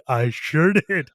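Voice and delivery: smug. Retold or imitated. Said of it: "And I'm like".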